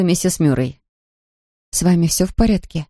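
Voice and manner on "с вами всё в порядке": usual speaking voice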